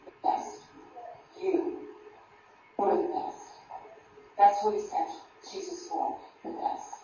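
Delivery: soft, breathy-quiet assurance; nearly whispering the praise; hushed. Real, not acted. Preacher tenderly tells the congregation they were the best, hushed.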